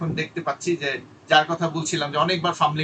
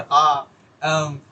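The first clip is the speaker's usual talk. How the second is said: hesitation filler; 5 dB louder, much slower than usual. Shown as a demonstration. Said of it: "ও শুরু করে দিবে".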